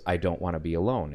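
put-on half-hearted sad child voice; a touch of crying. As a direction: narrator voicing the lonely ghost boy, mildly tearful. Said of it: "and he's crying".

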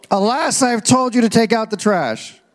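a playful, hammed-up biblical dad; mock archaic parent. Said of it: "I'm gonna start talking like that to my kids".

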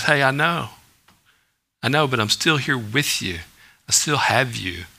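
mildly tender, quietly steadfast; gentle reassurance. Acted. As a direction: reassure someone who has just slipped. Jesus reassures a sheepish believer.

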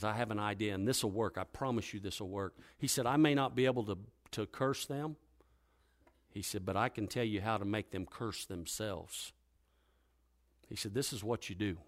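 sly quiet scheming. Acted. Balaam quietly plotting with the king.

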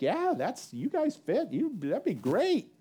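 high, upbeat imitation of approving pastors; mock encouragement. Pastors cheering on the couple's plan, mock-encouraging.

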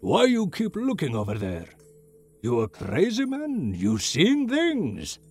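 put-on high, furious old shopkeeper yelling; angry old shopkeeper. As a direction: throw him out of the shop. Shopkeeper throws customer out.

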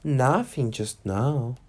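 slow, sad little answer; sadly. Acted. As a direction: say it slowly, a bit lost. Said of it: "She answered rather sadly".

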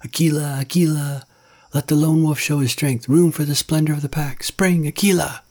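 high, loud jeering wolf cries; young wolves baying cruelly, up high; wicked, bitter howls. A narrator's reading. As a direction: taunt the old leader from the pack. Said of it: "wicked, bitter howls from the young wolves".

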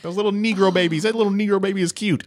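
loud, high-pitched cooing grandma; imitated grandma. Mimicking an oblivious grandma.

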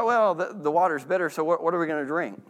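mild, even wondering; just asking what comes next, no complaint; curious question. Shown as a demonstration. Israelites calmly asking Moses about water, curious. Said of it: "more of a curiosity question".

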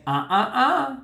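high, sing-song finger-wagging uh-uh; tut-tut like wagging a finger at someone; scolding no-no. Retold or imitated. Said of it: "I wanna wag my finger and say".

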